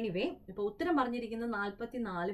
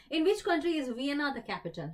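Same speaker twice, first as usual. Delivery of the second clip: drawn-out quizmaster reading; slow, deliberate game-show question; slow quiz question read; 3 semitones higher, much slower than usual. Acted. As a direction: read the question slowly and clearly. Quiz host reads question aloud.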